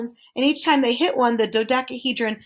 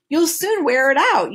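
dodecahedron voice; 5 semitones higher, 4 dB louder than usual. Acted.

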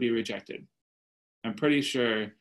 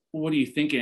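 higher-pitched mock disbelief; condescending; 4 semitones higher, faster than usual. Guy at the bar challenging a churchgoer, mildly condescending. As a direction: question her choice, lightly condescending. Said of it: "started with this condescending approach".

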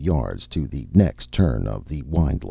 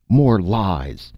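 shouting denial; 6 semitones higher, 4 dB louder than usual. A narrator's reading. Accused shouts at the spokesman.

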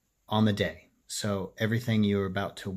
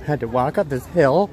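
mock whining; 5 semitones higher, 8 dB louder than usual. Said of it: "Listen to me whining about a hill".

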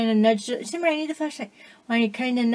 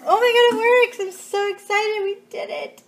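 excited shout; 10 semitones higher than usual. Real, not acted. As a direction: tell everyone the great news. Fixed sink, celebrating.

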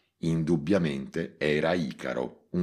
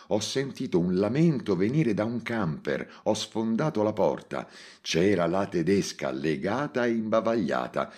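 agitated phone report; 5 semitones higher than usual. Acted. Agitated officer phoning in report.

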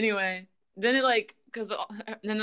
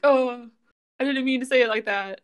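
mildly flustered, higher backpedaling; mock flipping out; 5 semitones higher, 5 dB louder than usual. Kyo backtracking as she nearly cries, flustered. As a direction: imitate a touch of nervous panic. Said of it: "He's, like, flipping out".

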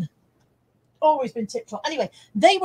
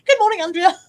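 plain redo; 7 semitones higher, 8 dB louder than usual. Shown as a demonstration. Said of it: "I didn't mean to say that like that".

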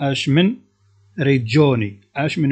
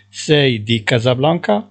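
each syllable drawn out, slowly; slow dictation; 5 dB louder, much slower than usual. Shown as a demonstration. Teacher to Moroccan students, slowly dictating Italian. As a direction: spell it out slowly for learners. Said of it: "teacher dictating phrase".

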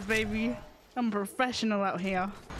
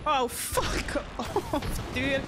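laughing; 3 semitones higher, much slower than usual. Real, not acted. Laughing at being chased.

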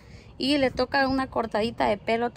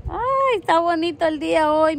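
delighted sigh; 4 semitones higher, 4 dB louder than usual. Real, not acted. Delighted remark on the day.

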